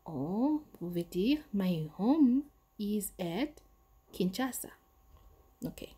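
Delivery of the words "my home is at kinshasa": slow model answer. Shown as a demonstration. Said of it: "models answer slowly".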